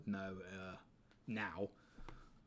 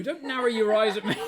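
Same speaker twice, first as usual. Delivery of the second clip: shouted through real laughter, louder; laughing shout; 10 semitones higher, 13 dB louder than usual. Real, not acted. Streamer laughing as he yells at Smo. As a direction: laugh while yelling at a friend.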